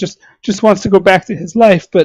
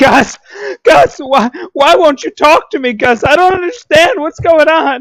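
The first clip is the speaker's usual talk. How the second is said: mock woman's screaming, much higher; 7 semitones higher than usual. Speaker describing a woman screaming at a bewildered man, imitating her screaming. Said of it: "She's screaming like".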